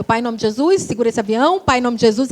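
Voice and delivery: low, quiet imitated praying; anxious prayer. Daughter praying the plane won't fall, low hushed prayer. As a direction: pray under your breath for the plane. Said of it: "E eu lá orando".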